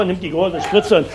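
normal talking voice

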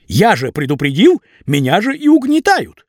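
high, aggrieved pleading; pleading young man. A narrator's reading. Vasya argues with boss.

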